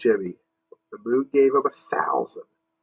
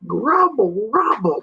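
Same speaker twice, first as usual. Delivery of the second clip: booming monster rumble; 10 semitones higher, slower than usual. Acted. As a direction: roll the grumble out big. Monster rumble, big and high.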